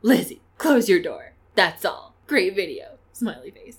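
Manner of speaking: loud, slightly teasing impression of a commenter; lightly put-on voice, each phrase delivered separately; Yolanda. Co-host reading Yolanda's comment to Lizzie, playful impression. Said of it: "I'll do my best Yolanda impression".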